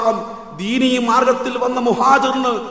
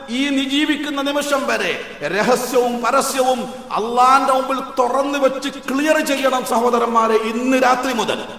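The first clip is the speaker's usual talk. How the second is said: impassioned preaching; 3 semitones higher, 3 dB louder than usual. Real, not acted. Preacher urging the brothers.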